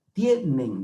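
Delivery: "Tienen" con fuerza en "Tie"; acento en la penúltima sílaba. Shown as a demonstration. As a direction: alarga y carga el inicio de "Tienen". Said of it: "La mayor fuerza de voz en la penúltima sílaba". ("Tienen", marcando la primera sílaba)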